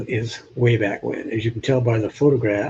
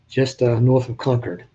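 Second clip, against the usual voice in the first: ordinary talk, nothing marked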